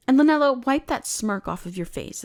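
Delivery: sharp call. Acted. Mage scolding Lynella for smirking, sharp call. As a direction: snap the name out to scold.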